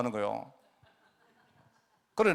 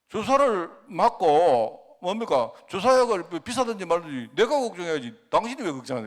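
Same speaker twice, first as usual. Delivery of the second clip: mock angry husband; 3 semitones higher, 4 dB louder than usual. Husband scolding his wife over the injection cost, a mildly acted angry tone. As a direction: play the husband snapping back at his worried wife. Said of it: "남편이 막 화를 막 내더래요".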